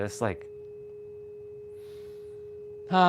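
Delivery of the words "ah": exhaled ah. Shown as a demonstration. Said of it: "every time I did it".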